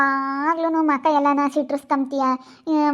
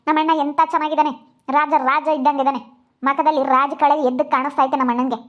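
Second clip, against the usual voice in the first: louder, contemptuous tirade at the bride; angry scolding; 4 dB louder than usual. Acted. Sister-in-law loudly insults her brother's new wife, angry. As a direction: tear into her loudly with scorn.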